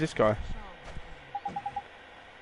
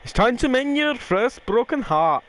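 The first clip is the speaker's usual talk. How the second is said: a cheeky Welsh fairy, pitched higher; lightly voiced fairy sidekick; 7 semitones higher than usual. Fairy companion ordering the boy to mend hearts, cheeky. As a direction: play the bossy little companion, a touch slowed at the end. Reading Drippy's lines aloud.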